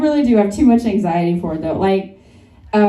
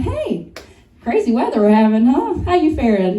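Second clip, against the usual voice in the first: mock friendly greeting. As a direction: play the overly friendly neighbour. Acting friendly small talk.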